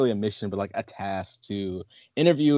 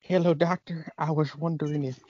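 polite request in a put-on Georgia accent; 2 semitones higher than usual. Parodying the trainee greeting the doctor, mock Georgia accent. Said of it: "that Georgia accent".

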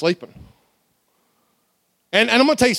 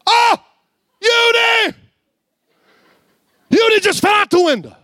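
much higher, louder panicked yelling; frantic hollering; 3 dB louder than usual. Retold or imitated. Church crowd hollering that Eudy fell out the window. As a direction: cry out in alarm from the crowd. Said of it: "People hollering".

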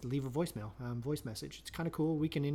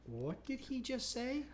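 hushed shocked murmur; 9 semitones higher, 7 dB quieter, slower than usual. Retold or imitated. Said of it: "everybody there kinda went".

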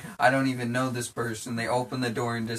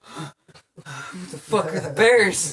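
bewildered; 6 semitones higher, 7 dB louder, much slower than usual. Retold or imitated. Bewildered just after waking.

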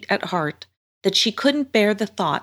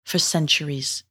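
lightly voiced mermaid, measured and grave; warning mermaid. Mermaid warns girl against the sea monster, measured. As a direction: warn her with deliberate emphasis.

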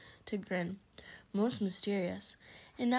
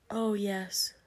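dismayed whisper. Acted. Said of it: "his heart shrinking horribly".

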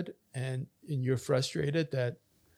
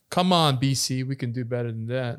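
loud, exasperated chiding; exasperated appeal; 7 dB louder than usual. Real, not acted. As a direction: call out your own province, louder at the start. Mock appeal to his own province.

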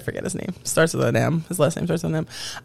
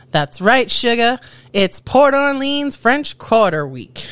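put-on Southern accent; 5 semitones higher, slower than usual. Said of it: "Gotta work on my southern accent".

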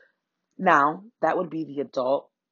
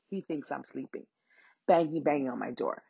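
hushed; 3 semitones lower, 6 dB quieter than usual. Real, not acted. Hiding from the man outside.

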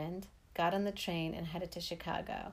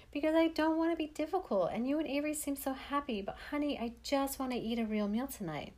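higher, tearful pleading; starting to cry; 7 semitones higher than usual. Retold or imitated. Mom confessing she is starving, high tearful plea. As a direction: voice lifting as the tears come. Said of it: "She started to cry and said".

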